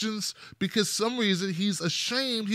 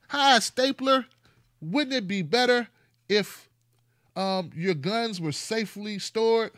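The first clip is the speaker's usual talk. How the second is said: mock polite; 5 semitones higher than usual. Talking sweetly to a stapler.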